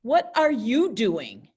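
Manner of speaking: firm, accusing question; angry. Shown as a demonstration. Teacher demoing the angry way to class. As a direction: ask it like you are annoyed. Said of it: "There's two ways to say that".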